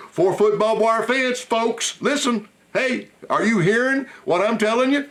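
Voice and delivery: high, laughing plea to the audience; laughing excitement. Real, not acted. Host urging his folks to see the joke, high and laughing. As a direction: press the folks to get the joke, still laughing.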